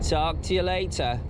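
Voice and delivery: lightly put-on English accent; casual sign-off, affected English accent. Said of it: "putting on that bleeding English accent".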